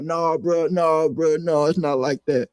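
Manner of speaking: mildly imitated pleading denial; retold pleading. Retold backtracking under threat.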